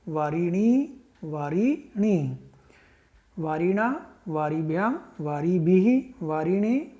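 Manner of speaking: rhythmic sing-song reading of the word forms; teacher reciting Sanskrit case forms aloud; paradigm recitation. Shown as a demonstration. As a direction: chant the declension table for the class. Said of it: "वारी को एक बार मैं read करा देता हूँ".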